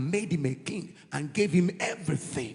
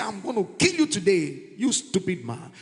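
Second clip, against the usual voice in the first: mock threat; 2 semitones higher, 3 dB louder than usual. Imagined angry David.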